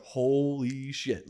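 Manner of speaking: very slow, drawn-out holy shit; stunned. Retold or imitated. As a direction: let the shock stretch the words out. Seeing the tank burst.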